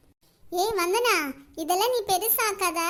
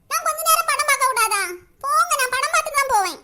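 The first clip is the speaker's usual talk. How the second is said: louder, higher stubborn pleading; whiny protest; 4 semitones higher, 6 dB louder than usual. Acted. Daughter protesting to her father, loud and stubbornly whiny. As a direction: refuse like a sulky teen.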